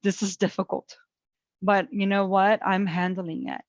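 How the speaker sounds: whispered reassurance to herself, hushed; soft soothing self-talk. Retold or imitated. Calming herself at the dentist, softly whispered. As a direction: breathe it out quietly to calm yourself. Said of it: "And then I said".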